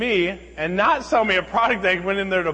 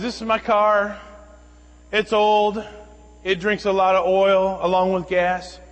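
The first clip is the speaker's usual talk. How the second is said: lightly voiced insistent stranger, higher and louder; retold demand, pitched up and forceful; pushy demanding woman; 4 semitones higher, 6 dB louder, slower than usual. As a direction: press the case, imitating a demanding woman.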